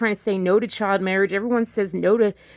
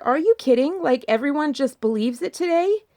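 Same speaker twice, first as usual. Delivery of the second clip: higher, incredulous retort; 5 semitones higher than usual. Retold or imitated. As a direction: disbelief pushed up high. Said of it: "And I'm like".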